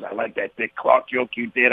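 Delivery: slow, lightly voiced impression of an older comic; unhurried compliment in a borrowed voice; lightly put-on voice, taking its time; imitating Carlin. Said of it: "He was talking like".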